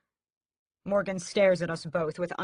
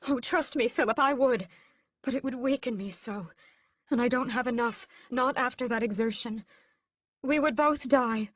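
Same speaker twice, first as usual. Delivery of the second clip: protesting; 7 semitones higher, 4 dB louder than usual. A narrator's reading. Mother protesting, high-pitched.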